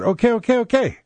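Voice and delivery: high-pitched, hurried mock surrender; mock concession. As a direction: give in with exaggerated, high-voiced appeasement. Acts out giving in to opponents.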